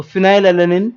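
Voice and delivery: phenylalanine said with a clear F sound at the start. Shown as a demonstration. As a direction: open phenylalanine on a crisp F. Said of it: "में फ की आवाज आ रही है".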